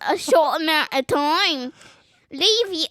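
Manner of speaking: loud put-on Scottish accent. Child showing off accents briefly, loud Scottish. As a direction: push out a playful Scottish accent. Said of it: "I can only do Scottish".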